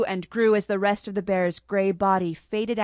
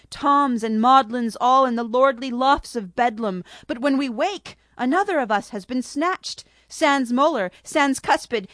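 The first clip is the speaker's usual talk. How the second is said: a lightly raised, excited monkey voice; agitated Cheshire monkey; 4 semitones higher, 3 dB louder than usual. Acted. Monkey explains the tooth snatcher to the sisters, agitated. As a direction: tell of the night hunter with rising alarm.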